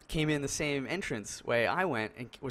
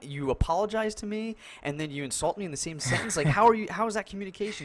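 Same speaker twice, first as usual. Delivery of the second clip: indignant; 8 semitones higher than usual. Retold or imitated. Retold argument with old guy.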